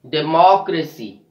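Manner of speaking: "democracy" with the second syllable MOC stressed. Shown as a demonstration. Teacher giving the example word, stressed "deMOCracy". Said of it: "We are stressing on the third last syllable".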